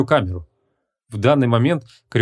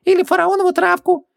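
exasperated genie; 3 dB louder than usual. A narrator's reading. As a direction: squeak it out impatiently. Genie voice held.

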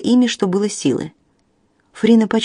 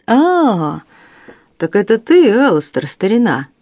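slightly winded from running; a little out of breath, cheerful; 2 semitones higher than usual. Acted. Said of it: "слегка запыхавшись". (слегка запыхавшись)

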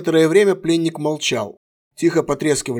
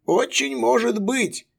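unruffled; 9 semitones higher, slower than usual. A narrator's reading. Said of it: "невозмутимо сказал Хион".

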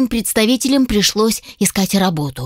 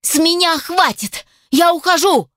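higher, indignant female voice; angry young elf; 8 semitones higher than usual. Acted. Furious elf assistant quits her job, higher indignant voice. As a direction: storm off in a huff. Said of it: "elf quits in anger".

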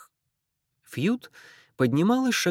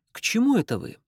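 put-on Irish accent; 8 semitones higher, faster than usual. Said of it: "сильный ирландский акцент".

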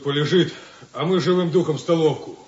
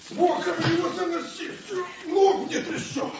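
calling out. Acted. Carrying a suitcase, calling out.

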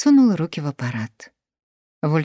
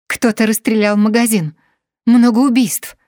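panicked yell; 6 semitones higher, 8 dB louder than usual. Acted. Woman yells the news.

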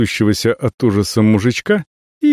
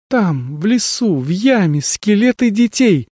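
grave tone; 10 semitones higher than usual. Acted. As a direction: say it so no questions remain. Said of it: "сказала Авелла таким тоном, что все вопросы отпали". (мрачно и серьёзно)

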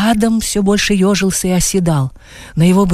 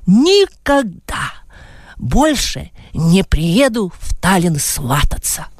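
bitter farewell; much slower than usual. Acted.

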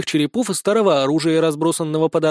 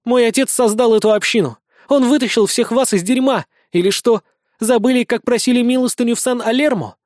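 put-on higher, indignant young woman; heated, raised-pitch reproach; defiant bandit girl; 5 semitones higher than usual. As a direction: throw their debt back at them.

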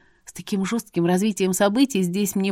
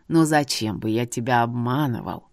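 put-on lowered voice of a wise old man; old seer, knowing; 7 semitones lower than usual. A narrator's reading. Seer tells her about her home, low knowing old man.

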